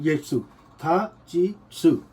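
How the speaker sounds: सू and ची spelt out slowly, drill style; slow teacher drill of सू था ची; syllables drilled slowly. Shown as a demonstration. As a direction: count each syllable out. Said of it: "इसके पहले T लगाना है".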